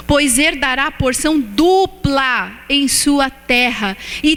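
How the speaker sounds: slow, weighty prophetic reading; solemn scripture reading. Acted. Preacher proclaims Isaiah to the congregation, slow and solemn. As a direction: proclaim the verse slowly over the congregation.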